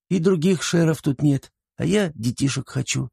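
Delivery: put-on high, matter-of-fact child voice; little girl. A narrator's reading. Girl explaining to uncle why she'd marry him, childlike. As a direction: reason earnestly in a high child's voice. Girl's voice in narration.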